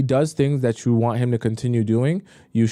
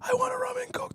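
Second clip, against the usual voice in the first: imitating a whispered order to a waiter; breathy, voiceless parody; mock whisper; 9 dB quieter, faster than usual. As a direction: whisper it to poke fun. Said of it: "Why would you whisper to".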